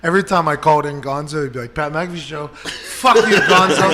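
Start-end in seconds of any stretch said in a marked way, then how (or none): 1.7-3.9 mock rude hello, laughing through the name; imitating Pat on the phone. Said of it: "That's exactly how I would talk".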